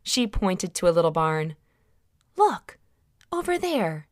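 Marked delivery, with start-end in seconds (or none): 2.4-4.1 high, bright-eyed woman pointing something out; Mary's voice. Acted. Mary points Joseph to the barn, high eager voice.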